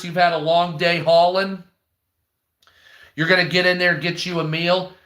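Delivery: ordinary delivery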